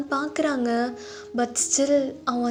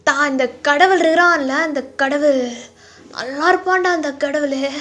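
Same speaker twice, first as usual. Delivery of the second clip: put-on broken drunk, bitter bursts at God; Taehyung; 4 dB louder than usual. Drunk man cursing God to his friend, broken and bitter. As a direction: slur out despair, swelling louder on the complaint. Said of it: "ஒரு மாதிரி உடைஞ்சு போன மாதிரி இருக்கான் தயாங்".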